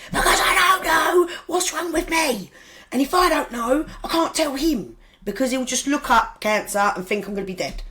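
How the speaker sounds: high, loud, desperate yell that eases off toward the end; upset shout. Retold or imitated. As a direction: shout it out in panic, then let it settle. Arguing with ex about telling son.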